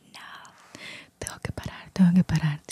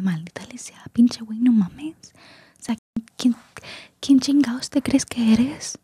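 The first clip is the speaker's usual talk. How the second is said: whispered hammed-up soap-opera insult, higher pitched; telenovela insult; 4 semitones higher than usual. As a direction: spit out the insult like a telenovela diva, still whispering. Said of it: "termino así como diciendo". (insulto de telenovela exagerado, en susurro agudo)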